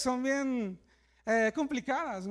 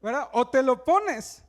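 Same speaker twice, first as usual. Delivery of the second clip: mock disbelief; 4 dB louder than usual. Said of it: "Y digo".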